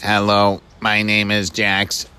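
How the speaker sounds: stiff robot introduction. Acted. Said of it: "funny robot voice".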